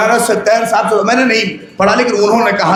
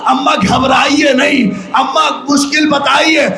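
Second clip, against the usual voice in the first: pleading daughter; 5 semitones higher than usual. Acted. Little daughter begging her dying mother, anguished. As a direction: beg her mother to speak.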